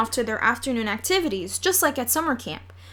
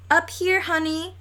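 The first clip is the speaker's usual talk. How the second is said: put-on little boy putting on a grown-up husband voice; best husband voice; 6 semitones higher than usual. Fudge calling down from the tree to Sheila, mock husband voice. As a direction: play the grown-up husband, a touch raised. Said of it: "in his best husband voice".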